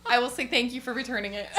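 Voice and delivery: high, loud appeal breaking into laughter; laughing plea. Real, not acted. Guest appeals to whoever returned her violin, laughing plea. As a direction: plead brightly to an unknown viewer, laughing.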